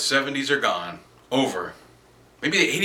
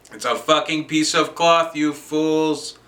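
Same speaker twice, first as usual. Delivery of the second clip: louder, higher, scornful outburst; exasperated rant; 4 semitones higher, 5 dB louder, slower than usual. Acted. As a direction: tell off the fools in exasperation. Ranting at flag-revering patriots.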